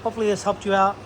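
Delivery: muffled, hand over the mic; words muffled by a covered microphone. Real, not acted. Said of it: "Sorry if you're muffled or if I'm muffled".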